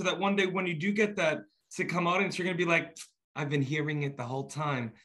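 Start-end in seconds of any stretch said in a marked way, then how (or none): 3.4-4.9 put-on a light Long Island accent, half-Brooklyn; playful Long Island accent, lightly done. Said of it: "That was my Long Island accent".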